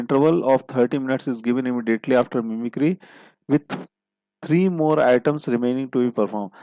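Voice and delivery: reads the puzzle clue word by word, very slowly; slow dictation reading. Shown as a demonstration. Teacher reading the clue aloud to the class, slow and deliberate. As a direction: dictate it slowly so students can write.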